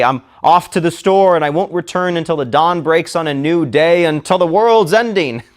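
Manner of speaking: mock-heroic announcement over errands; mock epic. Shown as a demonstration. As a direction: ham up the epic farewell. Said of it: "That's absurd".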